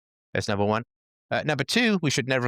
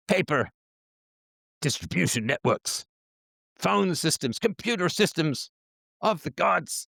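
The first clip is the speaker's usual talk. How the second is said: media establishment complaint; 3 semitones higher than usual. Acted. Mimics established media listing costly burdens.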